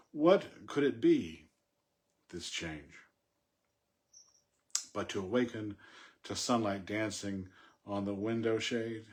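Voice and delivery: measured, deliberate poem read with pauses. Acted. Teacher reads a poem to the class, measured and deliberate.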